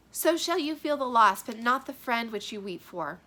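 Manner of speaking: mother scolds, daughter answers double-edged; dramatic dialogue reading. Acted. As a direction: read both parts aloud.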